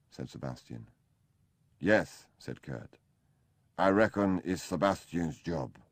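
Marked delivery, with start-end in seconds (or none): 1.8-5.8 a lightly voiced sulky German invalid, a little louder; whining Kurt. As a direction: complain like a needy sick man. Kurt claims it is Sebastian's job.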